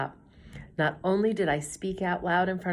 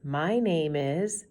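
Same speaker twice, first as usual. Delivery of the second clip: slow, halting, nervous start; shaky voice; much slower than usual. Acted. Nervous girl introducing herself to class, shaky and slow. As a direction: stall on the words with stage fright. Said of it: "My voice is shaky".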